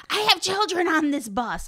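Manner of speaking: high, indignant mock bus driver. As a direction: huff it like an offended driver. Quoting angry bus driver.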